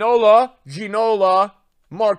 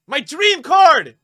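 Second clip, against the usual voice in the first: loud, drawn-out, raised cry; jubilant exclamation; 6 semitones higher, 5 dB louder, slower than usual. Real, not acted. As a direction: draw it out with joy. Celebrates dream card.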